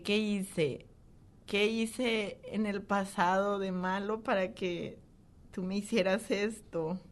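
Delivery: pleading, drawn-out question to God; retold tearful plea. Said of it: "le decía llorando".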